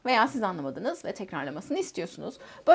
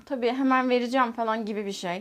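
ordinary talk, nothing marked

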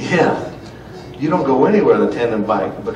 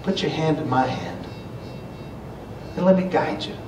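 God speaking tenderly; 2 semitones higher than usual. Pretend. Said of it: "God knows and says".

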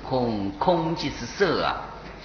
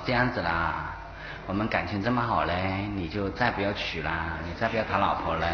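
pleading dying wife; 6 semitones lower, 7 dB quieter than usual. Retold or imitated. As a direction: beg him softly from the sickbed, voice sinking. (垂死妻子低声哀求)

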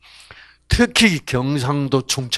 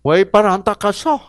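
높고 날카롭지 않게 다그치는 아내 흉내; 명령하듯 재촉해; 명령조 잔소리; 6 semitones higher, faster than usual. Pretend. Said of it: "이러면 막 남자는 막". (남편에게 명령조로 다그치는 말투)

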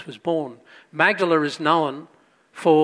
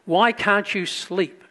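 gentle father; 4 semitones higher, slower than usual. Retold or imitated. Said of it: "And he says".

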